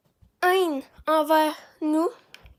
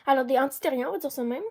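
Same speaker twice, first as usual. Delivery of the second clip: talking between sips of a drink; while sipping a drink; faster than usual. Real, not acted. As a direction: speak with a drink at your lips. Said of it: "moi, je bois en même temps".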